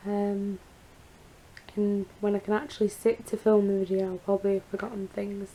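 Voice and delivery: hoarse, croaky post-surgery voice; rough croaky throat after surgery. Real, not acted. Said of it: "my really croaky voice".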